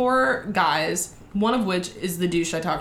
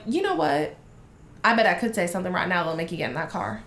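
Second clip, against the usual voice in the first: put-on Alabama accent; 3 semitones lower, 3 dB quieter, faster than usual. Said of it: "put the accent on for her".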